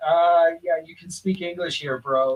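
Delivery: imitated casual American accent; perfect American accent. Gelato server answering a tourist, imitated American accent. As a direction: quote the server in easy American English. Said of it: "in this perfect American accent".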